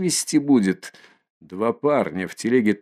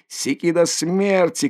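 furious shout; 7 semitones higher than usual. Acted. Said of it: "кричит Миколка".

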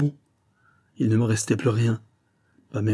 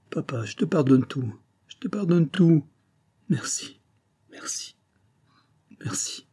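rising then fading into near silence; grateful through tears, dying away; tearful; 5 semitones higher than usual. A narrator's reading. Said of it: "Zara ne retient plus ses larmes".

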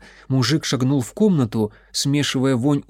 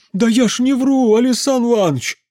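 high, loud protest swallowing words; the drunk uncle yelling to the mage that he isn't lying; drunk shouting; 10 semitones higher, 5 dB louder than usual. A narrator's reading. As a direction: shout your innocence like a tipsy peasant. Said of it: "закричал мужик".

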